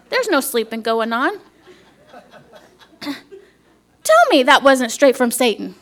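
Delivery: laughing. Real, not acted. Telling the church about her grandchild, laughing. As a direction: chuckle while telling the story.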